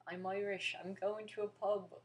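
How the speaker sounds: loud, hammed-up Irish accent; bad Irish accent. Shown as a demonstration. American who is bad at accents, loud mock Irish. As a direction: badly fake an Irish accent, loudly. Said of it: "not even gonna try the Irish and Australian".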